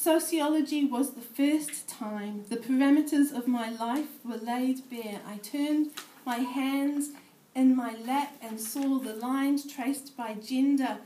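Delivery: measured spoken-word poetry reading; poem reading. Acted. Poet reading her piece to a room of sociologists, measured recital. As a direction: read it as a performed poem.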